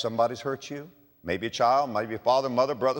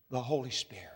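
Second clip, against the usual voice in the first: hushed whisper; 4 semitones lower, 11 dB quieter, faster than usual. Acted. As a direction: drop to a reverent whisper. Preacher drops to hushed climax.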